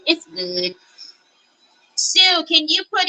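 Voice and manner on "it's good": soft, low, lightly voiced Terry. Crafter to her live viewers, soft Terry voice. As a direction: say it quietly, a hint of Terry. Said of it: "my Terry voice".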